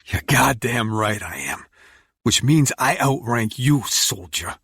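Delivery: forceful, pulling rank; commanding. Acted. Narrator asserting rank, fire in chest.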